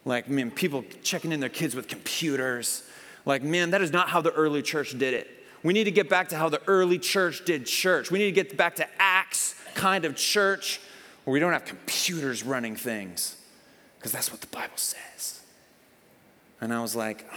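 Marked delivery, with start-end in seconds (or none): 0.1-13.3 angry rant. Retold or imitated. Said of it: "he was just angry about something". 14.0-15.4 whisper. Retold or imitated. Mocking the angry guy's punchline.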